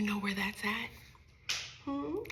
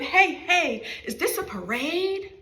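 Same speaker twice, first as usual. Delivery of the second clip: put-on loud, high excited shout from a boy; high-pitched yell of a surprised little boy; child's shout; 7 semitones higher, 7 dB louder than usual. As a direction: call out to the whole class in surprise. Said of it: "he shouted".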